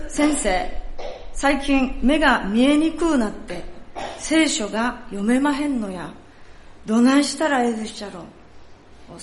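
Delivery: a lightly played elderly woman in Kansai dialect; Kansai accent. Pastor voicing the old woman asking about her hearing, in a Kansai accent. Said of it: "ちょっとここから関西弁になりますので".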